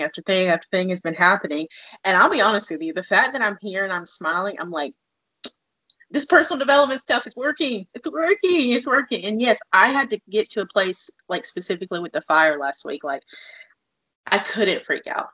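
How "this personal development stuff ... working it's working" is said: excited self-quote. Retold or imitated. Gleeful self-quote about progress.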